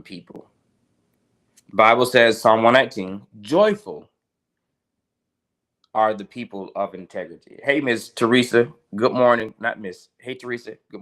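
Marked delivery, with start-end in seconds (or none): 3.4-7.6 slower, deliberate scripture reading; slow careful read of the verse. Shown as a demonstration. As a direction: give each word of the verse room. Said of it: "let me read it slow".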